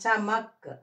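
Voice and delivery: చమక్ with no vowel after the final క్; చమక్, last letter as a half sound; clipped final consonant. Shown as a demonstration. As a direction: end చమక్ on a bare k sound. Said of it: "ఈ last అక్షరాన్ని పొల్లుగా పలకాలి".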